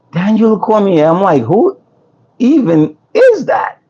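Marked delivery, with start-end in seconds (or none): 1.4-3.8 retold bewilderment, slow and rising higher; mildly exaggerated incredulity; baffled disbelief. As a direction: act out a drawn-out, puzzled reaction. His baffled reply, retold.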